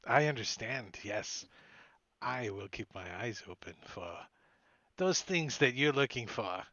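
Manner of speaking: loosely attempted Scottish accent; rough Scottish accent. Informant accepting a retainer from Pinch, rough Scottish accent. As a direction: agree discreetly in an amateur Scottish brogue. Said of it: "My Scottish accent isn't that great".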